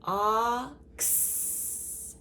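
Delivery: F-ox split, F then ox; softly sounding out F-ox; segmented word. Shown as a demonstration. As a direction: sound out F-ox in two parts, softly. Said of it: "box and fox".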